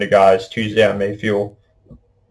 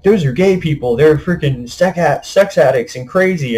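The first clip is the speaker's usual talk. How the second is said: higher-pitched scornful quote of a narrow-minded person; a lightly voiced bigot, raised and scornful; mocking a prejudiced onlooker; 5 semitones higher than usual. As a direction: sneer it out as the people you're mocking.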